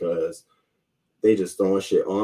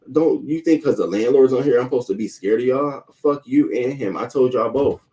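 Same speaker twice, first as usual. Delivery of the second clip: higher-pitched, indignant challenge; retold angry defiance; defiant retort; 4 semitones higher, 3 dB louder than usual. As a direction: stand up to them, voice raised in pitch. Acts out defiant email reply.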